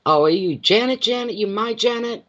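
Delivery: high, delighted surprise at a familiar name; surprised greeting. Real, not acted. Host spotting Janet in the chat, surprised.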